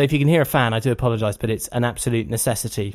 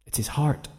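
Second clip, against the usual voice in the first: put-on little boy's answer; 4 dB quieter, slower than usual. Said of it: "He said".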